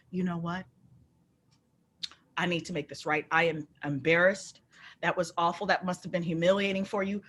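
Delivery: lightly voiced low, sincere apology; contrite manager. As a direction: imitate an embarrassed manager making amends. Voicing manager's apologetic phone call.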